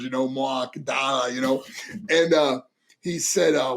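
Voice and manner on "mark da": "Mark" said as "Mawk", no R; dropped R's. Shown as a demonstration. Son demonstrating dad's speech, "Mark" without the R. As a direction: stretch the vowel in "Mark" and drop the R. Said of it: "didn't pronounce his R's".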